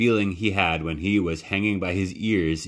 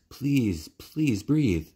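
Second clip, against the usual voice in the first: higher, begging please; a boy's anguished plea; desperate pleading; 6 semitones higher, much slower than usual. Acted. Boy begging sister to breathe.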